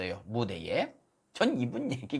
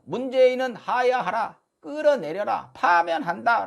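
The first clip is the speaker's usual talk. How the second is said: raised, mildly mocking protest cries; higher-pitched retold slogans; mimicked rally slogans; 5 semitones higher than usual. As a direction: imitate a rally speaker's demands. 집회 연사들의 구호 인용.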